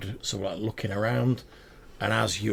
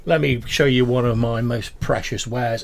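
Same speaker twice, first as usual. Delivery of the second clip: oil up the customer; pushy little merchant voice; fawning goblin salesman; 7 dB louder than usual. Acted. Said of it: "He says, uh".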